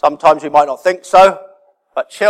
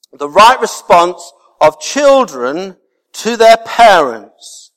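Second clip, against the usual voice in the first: slow, deliberate, each word weighed; slow emphatic heading; 3 semitones higher, 3 dB louder, slower than usual. Shown as a demonstration. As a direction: announce the point slowly. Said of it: "repeats for emphasis".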